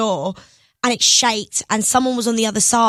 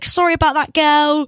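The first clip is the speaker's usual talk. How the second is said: higher, gushing retold apology; excited apology; 5 semitones higher, 3 dB louder than usual. Fan apologizes to her pop idol, excited. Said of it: "I'm getting a bit excited".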